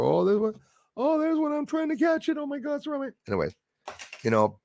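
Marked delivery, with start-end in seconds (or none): 0.0-3.1 very high squeaky mock excitement; mock excited orb-spotter. Host mocking people chasing orbs, high squeaky excitement.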